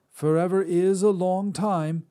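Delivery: put-on high, loud cranky old woman; old Drea. Old witch scolds the god who ruined dinner, high and loud. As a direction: snap at him like a crotchety crone.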